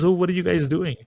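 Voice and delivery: a hint of character, high curious question; Naradaji. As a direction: ask the birds in a lifted voice. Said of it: "he says to the birds".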